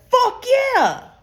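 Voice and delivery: high, slow, overjoyed cuss; mock happy cussing. Mocking her friend's rule with a fake cheerful cuss. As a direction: cuss like it's the best news ever, sarcastically. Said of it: "I'm only allowed to cuss if I'm happy cussing".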